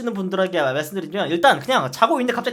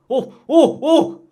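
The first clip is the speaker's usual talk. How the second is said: a high, loud burst of delight; ecstatic wow; 8 semitones higher, 5 dB louder, much slower than usual. Retold or imitated. Soldier tasting the moist donut on the digging detail, ecstatic wow. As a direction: rave as if tasting heaven. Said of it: "막 이러고".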